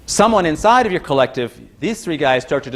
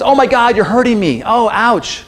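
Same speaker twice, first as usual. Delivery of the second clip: hammed-up whimpering, much higher and louder; mock cry of pain; 8 semitones higher, 3 dB louder than usual. Lecturer voicing a victim's complaint, mock pained cry. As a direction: play the wounded victim crying out, half joking.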